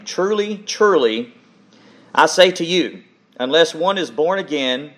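measured, solemn Bible reading to the congregation; scripture reading. Acted. Pastor reads John chapter three to the church, solemn scripture reading. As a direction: read the passage as holy words, unhurried and deliberate.

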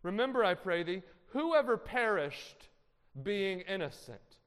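loud, slow, lofty scripture voice; Eliphaz preaching. Acted. Eliphaz accusing Job in lofty preaching tones. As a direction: declaim it like a self-sure accuser. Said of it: "this is Eliphaz speaking".

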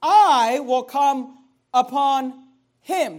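"I" hit loud, then slow deliberate words; stress on I. Retold or imitated. Preacher pointing out the personal wording, stress on "I". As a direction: lean hard on "I" and space out the rest. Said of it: "do you see that?".

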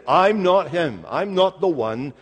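slow, deliberate denial; quite clearly. Acted. John setting his questioners straight, quite clearly. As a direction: spell it out firmly, word by word. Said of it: "he's saying quite clearly".

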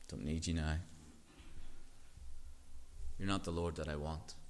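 a hint of careless dismissal; dismissive churchgoer. Preacher voices dismissive churchgoer.

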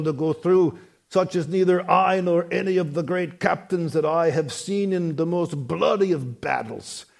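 a light hint of an Austrian-German accent in the quote; Arnold Schwarzenegger accent. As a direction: lightly put on an Austrian accent for the commander's words. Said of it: "in his maybe Arnold Schwarzenegger-like accent".

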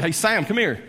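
half-hearted holler across a room; mild retold holler. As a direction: call someone over, without a full shout. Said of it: "one of them hollered at him".

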